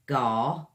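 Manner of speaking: Gar from the back of the throat; throaty gar. Shown as a demonstration. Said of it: "comes from the back of the throat".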